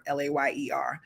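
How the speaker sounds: whispered, spelling the word. Shown as a demonstration. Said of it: "I'm saying layer".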